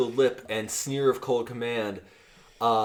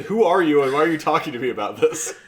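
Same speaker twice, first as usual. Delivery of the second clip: mock annoyed retort; 2 semitones higher, 4 dB louder, faster than usual. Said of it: "And I said".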